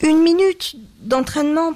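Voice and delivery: high, strained utterance; forced-out plea. A narrator's reading. Husband trying to excuse himself to wife, strained plea. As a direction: push the words out at last, high. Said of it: "prononça-t-il enfin".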